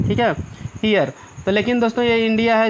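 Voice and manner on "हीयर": "हीयर" as hee-ar, ee gliding into a; dictionary pronunciation. Shown as a demonstration. Teacher repeats the Oxford dictionary sound, "हीयर" as hee-ar. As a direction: model "हीयर" alone as hee-ar, falling. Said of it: "इसका उच्चारण मिलेगा हीयर".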